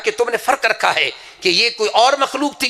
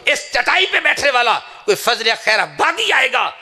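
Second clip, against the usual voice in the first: fervent preaching; 3 semitones higher than usual. Real, not acted. Preaching climax, swearing oath.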